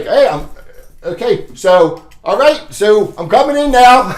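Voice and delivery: confident entry. Shown as a demonstration. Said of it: "it's a psychological thing".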